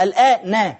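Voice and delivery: "الآن" with a clear short "a" on the final nun; final fatha sounded. Shown as a demonstration. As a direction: say "الآن" as al-aa-na, ending on an open vowel. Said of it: "حسب نطقك ليها".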